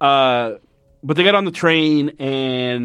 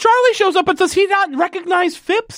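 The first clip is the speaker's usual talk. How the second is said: high, baffled questioning; high baffled rant about the plot; puzzled; 13 semitones higher than usual. Real, not acted. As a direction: sound genuinely confused, pitched up. Confused outburst about plot.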